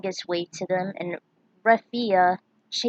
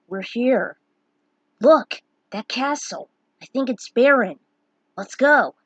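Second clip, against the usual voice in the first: eager arrival; 3 semitones higher, 7 dB louder than usual. Acted. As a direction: point out the castle eagerly. Cecil spots home castle.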